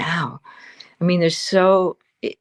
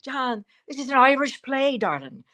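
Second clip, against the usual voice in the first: teasing cast; 6 semitones higher than usual. Retold or imitated. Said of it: "We all teased him. We're like".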